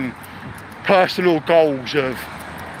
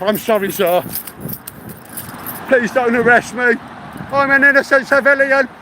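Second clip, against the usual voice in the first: mock pleading; 6 semitones higher than usual. Pleading with imagined police.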